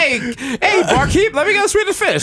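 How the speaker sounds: high, hollered call to the barkeep; old-time saloon customer. Pretend.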